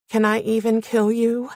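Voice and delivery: "Can I even kill you" lifted into an unsure question; questioning threat. A narrator's reading. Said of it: "as if I'd said it like a question".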